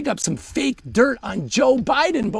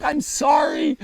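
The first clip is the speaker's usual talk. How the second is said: high wailed apology, getting louder and slower; mock crying; 4 semitones higher, 8 dB louder, slower than usual. Confessing to interrogating reporters, hammed-up crying. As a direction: imitate breaking down, stretching the second apology. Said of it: "And I just start crying".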